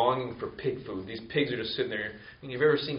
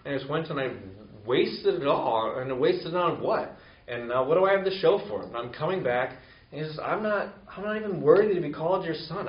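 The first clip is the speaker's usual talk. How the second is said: raised, urgent voice of a son rehearsing his confession; pleading son; 4 semitones higher, 3 dB louder than usual. Acted. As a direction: beg like a son who has thrown everything away. Son rehearses his plea to father.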